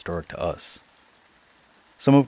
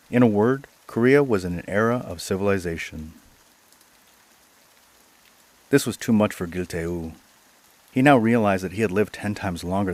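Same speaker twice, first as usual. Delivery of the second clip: measured, carefully phrased storytelling; story narration; 2 semitones higher than usual. A narrator's reading. Narrator telling of an old man back from the mountains, storytelling. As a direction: read it out as a folk tale.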